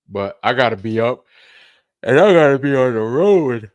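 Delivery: loud insistent line; emphatic. Real, not acted. Telling the family he has to leave, loud and insistent.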